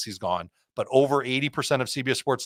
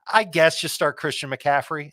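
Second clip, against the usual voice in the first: mock-reluctant, higher-pitched sarcasm; sarcastic; 4 semitones higher, 3 dB louder than usual. Analyst joking to the host about an obvious starter, sarcastic. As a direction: feign grudging doubt over an obvious pick. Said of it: "you caught the sarcasm there".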